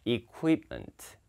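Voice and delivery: equipment slowly as "i-ku-ip-ment"; split u-i. Shown as a demonstration. Teacher modelling for students to copy, equipment split as ku-i. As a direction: draw out "ku-i" in equipment. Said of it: "발음이 equipment".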